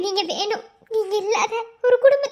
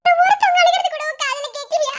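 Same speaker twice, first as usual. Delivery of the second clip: crying plea; 6 semitones higher than usual. Acted. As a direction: cry out his name, begging. Wife cries over husband. (அழுகையுடன் உயர்ந்த குரல் கெஞ்சல்)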